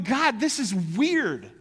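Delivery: slow, then why jumps high and loud; mock baffled outburst at God; exasperated question. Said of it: "I'm sitting there with you reading this".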